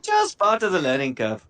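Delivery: put-on "learning curve" redone in the gnome voice, no Indian accent; back to the gnome voice. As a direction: correct yourself and say "learning curve" in the intended gnome voice. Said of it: "I went Indian then".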